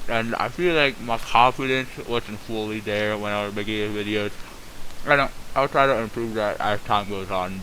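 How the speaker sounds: talking with a toothbrush in; while brushing teeth. Real, not acted. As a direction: mouth full of toothpaste. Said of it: "I'm recording this while I'm brushing my teeth".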